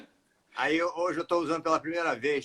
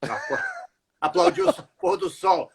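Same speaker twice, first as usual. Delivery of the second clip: much higher, laughing through words. Real, not acted. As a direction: crack up while joking. Joking about sunset crowd.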